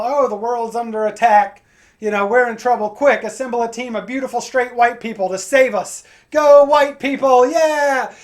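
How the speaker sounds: movie hero speech. Retold or imitated. Comic mocking superhero movies with a loud rallying cry. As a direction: hype it like a blockbuster trailer. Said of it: "every superhero movie is just the same".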